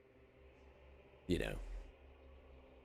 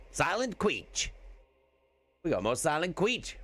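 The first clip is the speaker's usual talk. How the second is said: playful pun; 9 semitones higher than usual. Pretend. Playful name twist.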